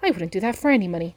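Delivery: high, loud, fast alarmed protest; scared innkeeper. Acted. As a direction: recoil in fright, pitch jumping up. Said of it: "looking really scared".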